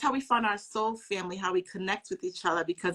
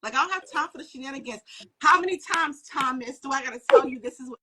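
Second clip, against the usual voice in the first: Jesus voiced exasperated; 4 semitones higher, 4 dB louder than usual. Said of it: "He's like".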